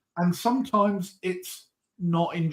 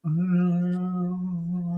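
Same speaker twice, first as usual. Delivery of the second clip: concentrating hum; 2 semitones higher, 5 dB quieter than usual. Retold or imitated. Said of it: "with your tongue out like".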